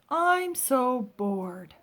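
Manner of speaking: slow, drawn-out bored sigh of a line. Shown as a demonstration. Teacher acting out a bored kid, slow and droopy. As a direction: drag it out like you're bored to death. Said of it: "Or bored".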